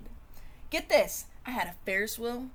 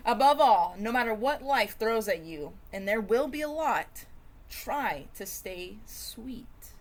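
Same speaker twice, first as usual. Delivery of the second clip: grandma's advice. Acted. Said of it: "my grandma said".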